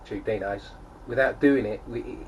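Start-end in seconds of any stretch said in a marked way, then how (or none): 0.0-0.6 Tube Dinos in a mock Antipodean accent, "Tube Deh-nize"; a light New Zealand-Australian accent on Tube Dinos. Shown as a demonstration. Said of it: "in an Antipodean accent".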